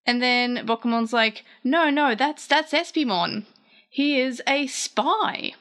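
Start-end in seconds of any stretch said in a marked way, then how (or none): 1.6-5.5 higher, slow put-on voice; character explaining. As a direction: spell it out slowly in a squeaky voice. Bokumon explaining Espimon.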